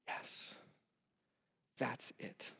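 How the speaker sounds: hushed, breathless whisper of wonder; awed whisper. Retold or imitated. David hears a newborn's first cry, whispering in awe.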